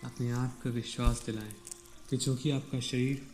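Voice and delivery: calm meditation guide, long pauses between phrases; guided meditation. Real, not acted. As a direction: ease them into stillness, leaving space after each instruction. (शांत ध्यान निर्देश, ठहर-ठहर कर)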